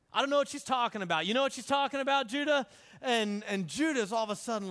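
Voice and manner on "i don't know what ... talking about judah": quick, mock-clueless questioning; pointed innocence. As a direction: rattle it off as if innocently puzzled. Messenger feigns innocence to Judah.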